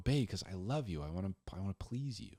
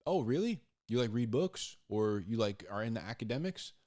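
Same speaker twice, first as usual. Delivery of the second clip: mock surprise; 3 semitones higher than usual. Questioner doubting the guy who claims he's smart, mock surprise. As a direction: feign amazement, skeptical.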